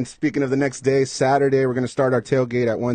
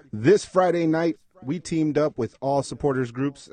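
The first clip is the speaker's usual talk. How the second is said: DJ voice; 3 semitones higher, slower than usual. Acted. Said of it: "Should I do the D J voice".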